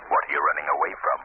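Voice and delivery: the Shadow taunting a frightened hired man, low and eerie. Acted. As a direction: speak as an unseen avenger looming over him. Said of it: "I'm the Shadow".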